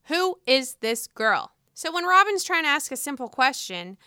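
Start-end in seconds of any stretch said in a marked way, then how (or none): 0.1-1.5 slow, drawn-out disbelieving repeat. Real, not acted. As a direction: let it sink in slowly. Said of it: "repeats question slower".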